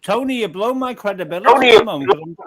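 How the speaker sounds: talking with food in mouth; words round a bite of food; mouth full. Real, not acted. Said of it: "I'm trying to speak with food in my mouth".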